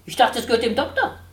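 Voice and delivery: dry. A narrator's reading. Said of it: "fragte trocken der Spatz".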